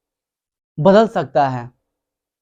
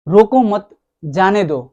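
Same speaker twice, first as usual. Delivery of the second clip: "रोको मत" as one phrase, then "जाने दो" falling; pause after मत. Shown as a demonstration. Teacher introducing a tone example, pause after मत. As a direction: join मत to रोको, then let जाने दो drop. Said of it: "यानी दोनों भाव इसमें आ जाती है".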